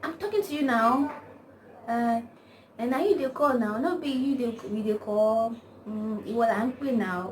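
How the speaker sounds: imitated catcalling. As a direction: call out insistently, imitating a catcaller. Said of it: "those touching and the cat calling".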